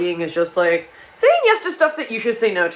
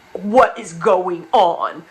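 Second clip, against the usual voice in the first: dazed confusion; 2 semitones lower, much slower than usual. Retold or imitated. Dazed drunk self, quoted.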